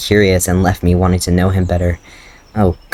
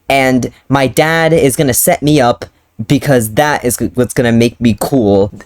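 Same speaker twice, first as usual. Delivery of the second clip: mocking her own hero; 5 semitones higher than usual. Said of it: "I instead am like".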